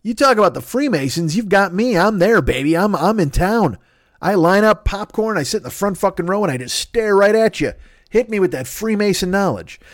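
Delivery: high, excited mock protest; mock outraged fan. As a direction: whine like a let-down superfan. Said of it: "And I'm like".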